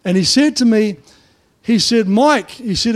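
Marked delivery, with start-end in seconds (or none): 2.1-2.5 called out loud and high across a crowded site; yelled name. Retold or imitated. Loudmouth builder yelling to the pastor, high and loud. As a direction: shout his name across the room.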